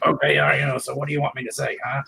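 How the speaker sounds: lightly voiced grumpy gnome; a hint of the gnome answering back. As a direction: gnome grumbling, barely put on. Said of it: "make the gnome talk".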